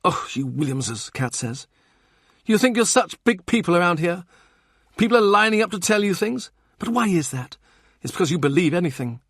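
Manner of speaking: mock the family's self-importance; Kat voiced.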